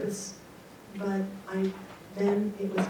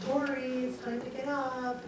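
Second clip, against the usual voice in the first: soft, lifted parent voice; softly singing out a wake-up; gentle wake-up call; 3 semitones higher, 5 dB quieter than usual. Retold or imitated. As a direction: coax a child awake softly. Mother waking her sleeping son.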